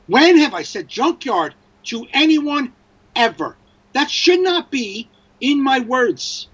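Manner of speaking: indignant, drawing out each objection; exasperated. Acted. Acted exasperation at phone's word choice.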